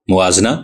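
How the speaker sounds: موازنہ said mawazna, zabar on meem, ze silent; موازنہ with no vowel after z. Shown as a demonstration. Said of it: "میم کے زبر کے ساتھ اور زے کے سکون".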